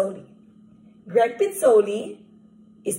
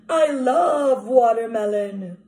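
shout; slower than usual. Acted. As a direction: belt it out like a greedy crocodile. Crocodile shouts his love.

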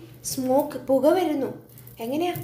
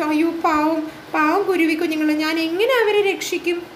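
pitying tree; 3 semitones higher than usual. Acted. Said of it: "tree വിചാരിച്ചു".

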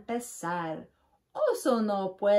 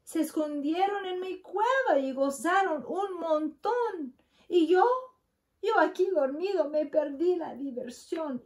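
higher whiny complaint; a big bear feeling left out; sulky bear; 8 semitones higher, faster than usual. A narrator's reading. Bear complaining to the animals, higher and whiny.

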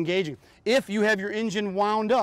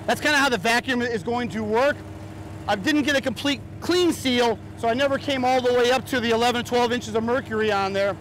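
raised, higher voice over noise; shouting over engine; 4 semitones higher than usual. Real, not acted. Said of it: "it may be hard for you to hear me".

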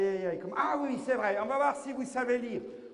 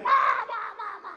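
mocking eager kids; 10 semitones higher, 4 dB louder than usual. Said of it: "inutile de faire".

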